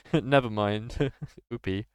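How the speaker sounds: slow, giggling never mind; laughing. Real, not acted. Player brushing off the accent mistake while laughing.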